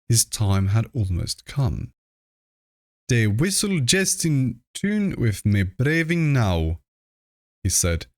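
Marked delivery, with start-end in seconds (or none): 3.1-6.8 lightly voiced old country farmer, a bit higher; a hint of a rustic old man foretelling his death; old Whately's voice.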